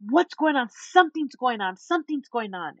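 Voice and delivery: pushy, keyed-up mimicry; urgent high energy. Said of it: "this is the energy".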